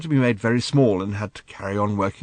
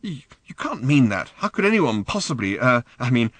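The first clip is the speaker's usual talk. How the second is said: high, loud furious challenge; angry demand; 11 semitones higher, 5 dB louder than usual. Acted. Daughter demanding angrily of her father. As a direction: spit the question at him.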